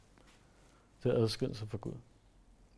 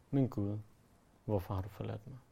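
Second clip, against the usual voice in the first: quieter, sinking cry of Min Gud, min Gud; forsaken lament; 2 semitones lower, 5 dB quieter than usual. Pretend. Sinner alone in a corner crying to God, quiet forsaken lament. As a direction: murmur it like someone left alone in a corner. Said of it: "Du har fortjent at stå i et hjørne og sige".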